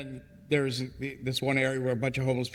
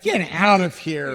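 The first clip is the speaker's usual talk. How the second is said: mock disbelief; 4 semitones higher, 9 dB louder, slower than usual. Retold disbelief at news.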